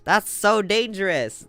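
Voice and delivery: gasp, then a loud, slow cry of alarm; real shock at the news. Real, not acted. Player reacting to the police family reveal, loud gasping alarm.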